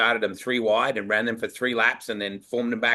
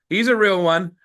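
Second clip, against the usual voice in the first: higher and louder, thrilled; excited remark; 7 semitones higher, 6 dB louder than usual. Retold or imitated. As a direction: announce it like you've found the real thing. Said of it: "And he goes".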